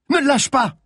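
very high, pressing shout; urgent yell. A narrator's reading. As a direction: yell an order in the chase. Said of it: "hurla à nouveau Malines".

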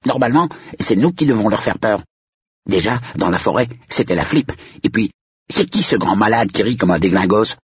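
put-on high, quick kid complaint; high-pitched grumbling youngster; annoyed little boy. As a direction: protest like an indignant child.

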